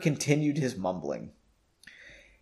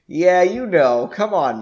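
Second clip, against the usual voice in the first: excited; 5 semitones higher, 7 dB louder, slower than usual. Acted. Reader voices character bravado.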